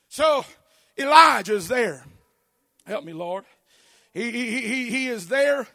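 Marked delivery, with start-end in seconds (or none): 2.8-3.4 whining Elijah. Acted. Elijah voiced in despair.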